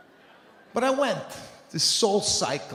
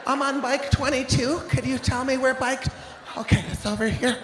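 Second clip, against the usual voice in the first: higher, sing-song eager voice; chirpy gym regular; 8 semitones higher than usual. Retold or imitated. Mocking eager regulars finding their bikes, higher voice. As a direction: play the cheerful spin regular. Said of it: "so they're all walking around".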